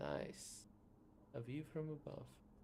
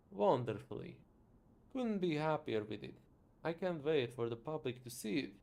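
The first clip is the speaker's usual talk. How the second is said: louder, boastful inventor bragging; proud inventor voice; 7 dB louder than usual. Acted. Inventor boasting about the new prosthesis, loud and proud. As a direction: boom with pride about the invention.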